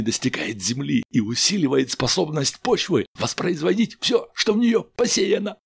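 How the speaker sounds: tipsy chemist explaining eagerly; tipsy crewman. A narrator's reading.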